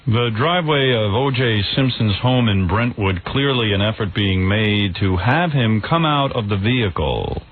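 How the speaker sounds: Peter Jennings. Acted. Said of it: "me as Peter Jennings".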